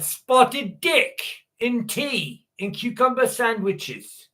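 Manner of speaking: mock British accent. Mocking the royal wedding menu.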